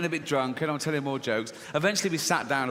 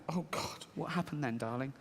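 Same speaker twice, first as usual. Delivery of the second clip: soft, dismayed parent pressing gently; hushed acted concern; concerned father; 10 dB quieter than usual. Father hearing his daughter's account, softly dismayed.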